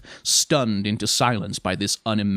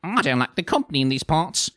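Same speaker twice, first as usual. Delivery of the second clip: mildly sour, higher-pitched jibe; 7 semitones higher, 3 dB louder than usual. A narrator's reading. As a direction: show your distaste for the company. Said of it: "said Nanny sourly".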